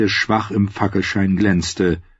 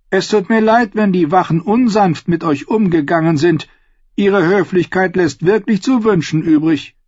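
higher voice, solicitous and polite; concerned, friendly; 7 semitones higher than usual. A narrator's reading. Jailer apologises to the chained bard, kindly. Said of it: "Sein Ton war besorgt und freundlich".

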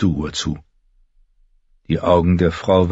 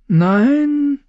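very high, drawn-out denial; high-voiced healer's assurance; reassuring; 4 dB louder than usual. A narrator's reading. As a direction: assure her it is not so. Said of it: "versicherte ihr Mirimads Duur".

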